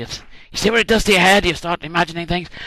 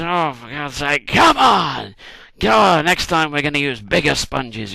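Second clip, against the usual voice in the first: exasperated; 5 dB louder, slower than usual. Retold or imitated. Moses exasperated at the slow battle.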